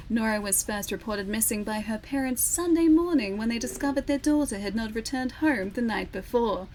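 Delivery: formal broadcast news read; full newsreader voice. Shown as a demonstration. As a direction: deliver it like a TV newscaster. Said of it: "full newsreader voice".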